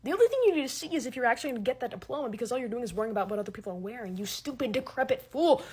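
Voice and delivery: fast, heated mock rant. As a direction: scold them like a fool, fast. Ranting at the poster.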